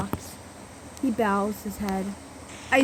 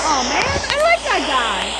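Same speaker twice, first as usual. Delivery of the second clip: whimpering; 7 semitones higher, 7 dB louder than usual. A narrator's reading. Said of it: "I whimpered".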